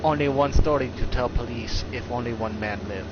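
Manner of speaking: put-on light broken-English accent of an old martial arts master, clipped grammar; hint of a wise old master's foreign accent; mock old master's accent. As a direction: lightly imitate the old teacher's accent, calm and solemn. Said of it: "we can actually do the accent of how this story goes".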